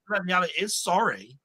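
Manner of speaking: dawning shock at his own life; mock realisation. Man realising his life is the sitcom, mock startled. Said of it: "And I'm going".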